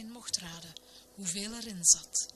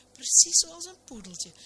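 high excited; 10 semitones higher, 6 dB louder than usual. Acted. Pastor describing poodle cut.

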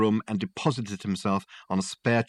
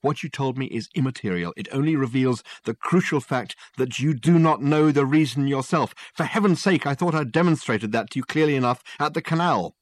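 higher, louder forceful detective; insistent Dirk; 5 semitones higher, 3 dB louder than usual. Acted. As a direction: press the point hard.

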